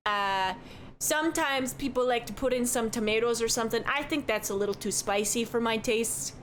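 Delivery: lightly voiced chatty Midwestern barkeep; cheerful innkeeper who says don't you know; folksy bartender. Bartender describing hot dish.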